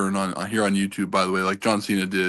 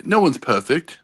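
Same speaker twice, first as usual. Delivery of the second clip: put-on English accent, pitched up at first; 4 semitones higher, slower than usual. Shown as a demonstration. Joking to the panel in a hammed-up English accent. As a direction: play up a mock English accent. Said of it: "That's my English accent".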